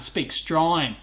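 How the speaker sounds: "Australian" crushed down to "Strine"; slurred Strine. Shown as a demonstration. Streamer playing up his accent, "Australian" slurred to "Strine". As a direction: slur "Australian" into one syllable, dropping the start. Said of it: "We tend to slur our words together".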